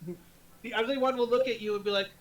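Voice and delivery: usual speaking voice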